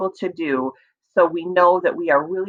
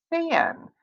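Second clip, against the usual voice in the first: "Fan" sung out much higher; high sing-song word; 12 semitones higher, 5 dB quieter than usual. Shown as a demonstration. Teacher repeating the word for kids: high, playful.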